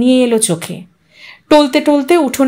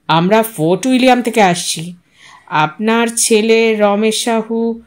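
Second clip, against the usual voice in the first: chill official voice; 3 semitones lower than usual. Acted. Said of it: "লোকটা স্বরে বুঝি একটা হিমেল আভাস ছিল".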